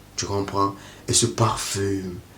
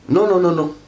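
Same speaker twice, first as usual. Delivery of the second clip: high, louder burst of no's; emphatic no; 8 semitones higher, 4 dB louder than usual. Real, not acted. To a friend, dismissing a wrong sign: emphatic no's. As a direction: shut the idea down hard. Rejecting the jealous questions idea.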